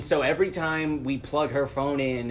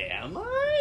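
high surprised am I. Retold or imitated. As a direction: squeak it in mock disbelief. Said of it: "I'm like".

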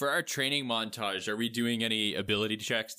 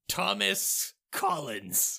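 slow name; 5 semitones higher, much slower than usual. Pretend. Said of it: "Your name's going to be Thomas Collins".

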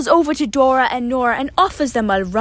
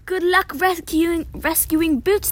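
higher-pitched storybook cheer; calling out; 5 semitones higher than usual. Acted. Snowmen and animals cheering on Nora and Dora, calling out. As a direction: call out encouragement, pitched up. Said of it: "they call".

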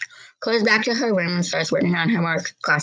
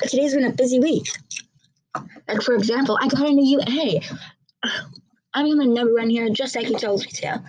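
put-on a girl talking to her brother; 4 semitones higher than usual.

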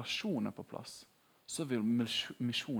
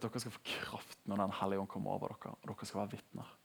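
hushed whisper of the promise; soft reverent whisper; whispered scripture; 3 semitones lower, 6 dB quieter than usual. Acted. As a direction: breathe the verse out softly. Reading Jesus' words softly.

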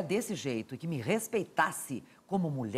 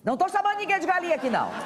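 high, fast, laughing denial; laughing disclaimer; 12 semitones higher, much faster than usual. Real, not acted. To the studio audience, a high laughing disclaimer. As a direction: giggle out the disclaimer.

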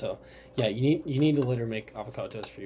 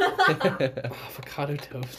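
laughing; slower than usual. Real, not acted. Echo through laughter.

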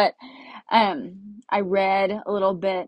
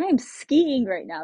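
higher, slow marvelling; retold amazement; 4 semitones higher than usual. Skier marvelling on the mountain, higher slow disbelief. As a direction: stretch it out in wonder. Acting out amazement at summer skiing.

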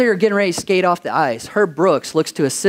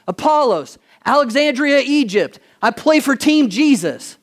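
raised pitch, lightly acted self-introduction; player's roll-call declaration; 7 semitones higher than usual. Preacher voices Apollos standing up next, lightly acted declaration. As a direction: declare name, town and team in turn.

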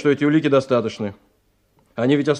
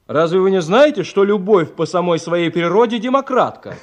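насмешливо, сквозь смех; подтрунивает, посмеиваясь; со смехом; 5 semitones higher than usual. Acted. Насмешка над аристократом Кроссманом. (со смехом подкалывает собеседника)

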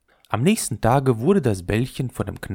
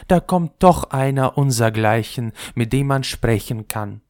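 put-on a little higher, chatty old ball; the soggy old ball greeting the gilded top; 3 semitones higher, 4 dB louder than usual. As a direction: welcome a fellow of your class.

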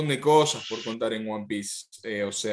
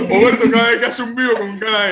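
fast, higher, laughing through it; laughing while talking; 7 semitones higher, 7 dB louder, faster than usual. Real, not acted. Mocking the publisher's livestreams, laughing. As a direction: laugh as you describe him.

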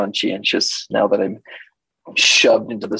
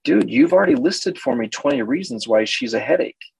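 mock exasperated; 7 semitones higher than usual. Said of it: "I'm all".

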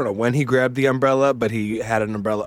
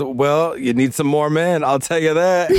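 rising, louder playful jab; mock teasing shout; loud teasing quip; 4 semitones higher, 3 dB louder than usual. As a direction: call it out like a cheeky joke. Ava's teasing quip retold loudly.

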